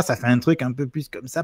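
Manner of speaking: loosely imitated Lyonnais accent; rough stab at a tense Lyonnais accent; Lyon accent. Shown as a demonstration. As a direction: attempt a Lyon accent with some vocal tension. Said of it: "c'est une tension, euh, vocale".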